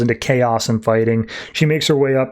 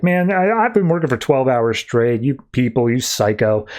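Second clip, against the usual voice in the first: pissy. Retold or imitated. Airline clerk at the end of patience with Harley, pissy. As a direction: imitate a fed-up worker grumbling. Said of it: "getting all pissy with Harley".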